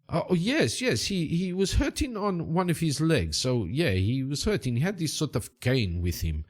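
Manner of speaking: eager, high-starting local guide; Valdemar Silva. Acted. Boatman confirming the man's limp, eager character voice. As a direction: confirm it as the foreign sidekick.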